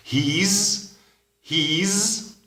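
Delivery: He's said very high, short; high model contraction. Shown as a demonstration. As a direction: chirp the contraction he's clearly. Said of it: "llega a ser". (he's, muy agudo y corto)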